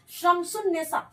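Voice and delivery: शमसुन निसा with a direct न and no l sound; no lām in शमसुन निसा; pronunciation demo. Shown as a demonstration. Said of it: "शीन के बाद direct नून का तलफ़ुज़ हो रहा है". (शमसुन निसा, सीधे नून)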